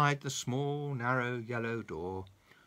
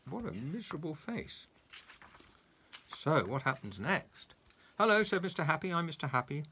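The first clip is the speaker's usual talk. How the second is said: put-on lively storybook reading for a child; reading to children. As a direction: read it like a bedtime story for a grandson. Grandpa reads a story aloud.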